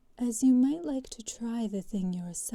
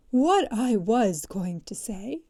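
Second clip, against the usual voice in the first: offended tone; 7 dB louder than usual. Acted. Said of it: "in an offended tone".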